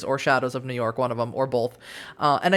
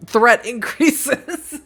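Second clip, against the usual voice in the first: higher, loud, drawn-out game alert; mock alert announcement; 6 semitones higher, 6 dB louder, much slower than usual. Player announces rising threat in the game, mock-dramatic.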